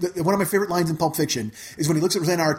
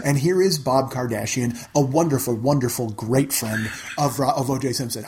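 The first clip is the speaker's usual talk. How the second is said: pompous announcer; 6 semitones lower than usual. Retold or imitated. Mock announcing Kardashian introduction.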